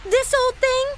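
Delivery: coy flirt. Acted. Flirty reply to a compliment.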